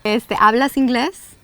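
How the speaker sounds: ¿hablas inglés? said natively, silent h; Spanish pronunciation. Shown as a demonstration. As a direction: model ¿hablas inglés? with a rising question. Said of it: "do you speak English?".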